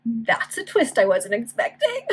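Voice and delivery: slow amused remark through a laugh; laughing aside. Real, not acted. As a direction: chuckle at the surprise in the plot. Reader reacts to plot twist.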